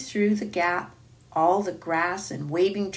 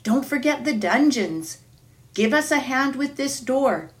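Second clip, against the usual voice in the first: crying out excitedly; 3 semitones higher than usual. Acted. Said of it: "everyone's voices crying out at once".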